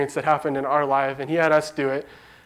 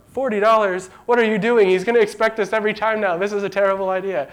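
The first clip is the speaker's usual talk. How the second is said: incredulous dad; 4 semitones higher than usual. Retold or imitated. Dad objects to overpaying son.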